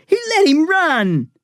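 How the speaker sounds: high, loud repeated scream; outraged boy repeating the accusation. Acted. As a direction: scream it again, stressing let. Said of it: "Eric screamed".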